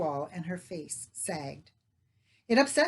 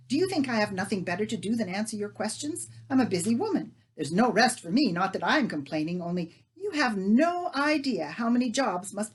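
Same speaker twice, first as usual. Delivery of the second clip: scolding; 3 semitones higher, 6 dB louder than usual. Acted. Leah scolds neighbour.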